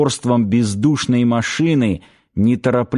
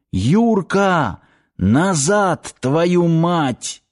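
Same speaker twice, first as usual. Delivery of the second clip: desperate shout; 5 semitones higher, much slower than usual. Acted. Shouting after running captain.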